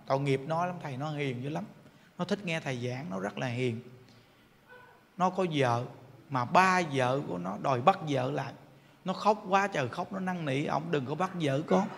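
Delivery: hushed, sorry for her son; pleading mother. Retold or imitated. (bà mẹ kể khổ với thầy, giọng thấp và rất nhỏ)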